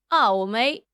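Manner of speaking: brief Australian accent. Shown as a demonstration. Streamer asked to sound Australian, Australian accent. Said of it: "Can you do Australian accent?".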